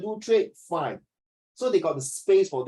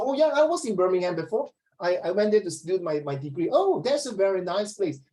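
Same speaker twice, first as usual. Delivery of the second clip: lively mock British small talk; imitating polite British enthusiasm; British accent; 2 semitones higher than usual. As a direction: put on a very British way of chatting. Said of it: "accent in a very British way".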